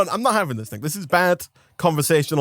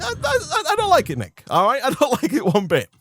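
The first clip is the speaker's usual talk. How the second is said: high, whining protest; high whiny complaint; 9 semitones higher than usual. Retold or imitated. To Nick about the rude worker, a high whiny complaint. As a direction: whine it up high, hurt and fussy. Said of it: "I'm like".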